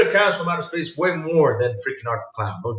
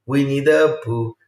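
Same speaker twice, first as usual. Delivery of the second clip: Winnie the Pooh spelled out slowly; deliberate slow correction; slow, careful naming; 3 semitones lower than usual. Shown as a demonstration. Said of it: "Pooh with an H at the end".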